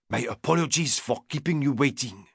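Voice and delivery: put-on strong French accent, chef addressing his lord; Didier's heavy French accent. French chef greeting Lord Errington, strong French accent. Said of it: "he said in a strong French accent".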